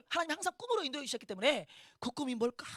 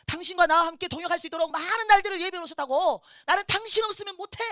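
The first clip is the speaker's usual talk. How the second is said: high, loud heartfelt insistence; emphatic reassurance; 7 semitones higher, 10 dB louder than usual. Retold or imitated. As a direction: plead forcefully with a spouse. 남편을 간절히 설득하는 말을 재연. (높고 크게 간절히 설득하기)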